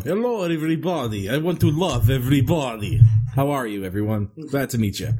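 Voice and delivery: hammy put-on Russian accent. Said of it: "not crazy Russian accent Joe".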